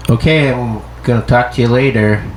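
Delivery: lightly voiced curt sign-off; mock version of a friend's text voice; text message voice. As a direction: read the text coldly. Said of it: "my voice that you give for text messages".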